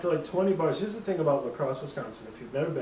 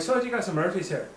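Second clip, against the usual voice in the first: tipsy attempt at an Irish accent, a bit higher; 4 semitones higher, faster than usual. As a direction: ask in a mock Irish lilt. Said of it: "we're both doing Irish accents".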